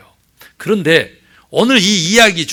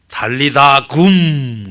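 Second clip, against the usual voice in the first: slow; 3 semitones lower, 4 dB louder, much slower than usual. Shown as a demonstration. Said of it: "그런 게 달리다 굼".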